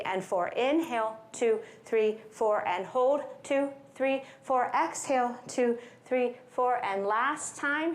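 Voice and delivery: slow, evenly spaced counting; guided breathing count. Shown as a demonstration. Coach leading box breathing, measured rhythmic count. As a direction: count them steadily through each breath.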